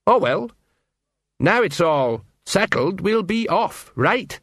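a hint of a nervous old sergeant edging out; Sergeant Colon voice. A narrator's reading. Colon hurrying the watch out of the gate, lightly flustered. Colon repeats it's all settled.

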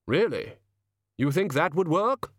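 slow, deliberate solemn figure; slow heavy voice. Acted. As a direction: weigh each word heavily. Hooded figure talking.

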